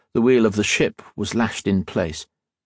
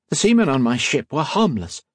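a touch of sharp retort; lightly snapped line; mild snap; 5 semitones higher than usual. Acted. Spy snaps back at the captain, mildly sharp. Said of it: "Colette snapped".

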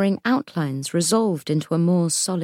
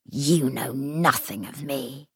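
ghost voice; 3 semitones lower, 4 dB quieter, slower than usual. Acted. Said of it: "said Ghast".

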